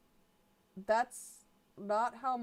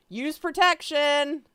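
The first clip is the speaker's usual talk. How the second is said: higher, louder, slow mock warning; hammed-up Joey; 7 semitones higher, 7 dB louder, slower than usual. Joey warning a friend, hammed-up slow call. Reading fanfic dialogue, voicing Joey.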